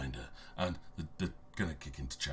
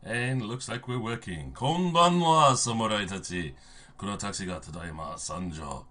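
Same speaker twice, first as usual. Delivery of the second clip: hoarse voice; 6 semitones higher, 11 dB louder than usual. Real, not acted. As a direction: push through a hoarse throat with a dramatic greeting. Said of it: "as much as my voice is gonna handle".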